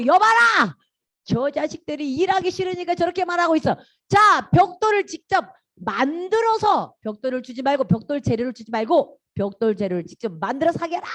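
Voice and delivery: mock royal command, easing toward the end; commanding Pharaoh. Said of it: "딱 명령".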